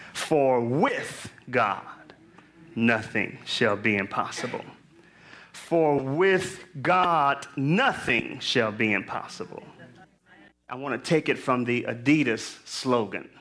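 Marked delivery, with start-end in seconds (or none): 0.1-4.6 "with" stressed, "For with God" drawn out slowly; emphasizing words. Shown as a demonstration. Preacher rereading the verse to emphasize words, slow stress on "with". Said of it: "I'm gonna emphasize certain words". 5.5-9.6 slow "For with God" with "with" stressed, then "nothing" stressed; emphasizing words. Shown as a demonstration. Preacher rereading the verse for emphasis, slow and stressed. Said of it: "I'm gonna emphasize certain words".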